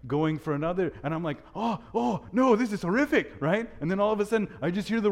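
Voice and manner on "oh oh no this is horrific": retold horror. Horrified reaction in the vision.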